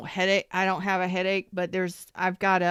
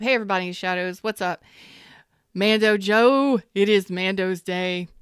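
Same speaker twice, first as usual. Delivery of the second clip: cheerful shout-out; 5 dB louder than usual. Real, not acted. Greeting a viewer by name.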